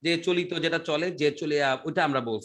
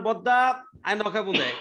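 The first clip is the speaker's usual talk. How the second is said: Chittagonian dialect, first word raised; Chittagong accent; 2 semitones higher than usual. Shown as a demonstration. Teacher shows students how Chittagong people talk, Chittagonian accent. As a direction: call out like a Chittagong local. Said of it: "চিটাগাংয়ের মানুষ".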